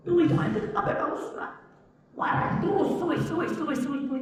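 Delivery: high mocking voice, rattling off "suis, suis"; mock angry typist. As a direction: mimic someone angrily typing away. Mocking an angry person typing.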